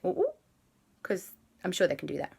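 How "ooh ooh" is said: little "ooh, ooh" effect; perking ears noise. A narrator's reading. Bear hears the word fish, perking-up noise. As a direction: voice ears pricking up. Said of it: "the bear's ears went".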